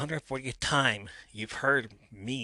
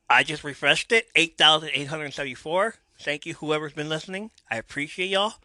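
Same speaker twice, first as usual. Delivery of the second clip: real delight, higher and louder; excited thanks; 5 semitones higher, 7 dB louder than usual. Real, not acted. Host thanking listeners as the count rises, excited. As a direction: beam at the growing number.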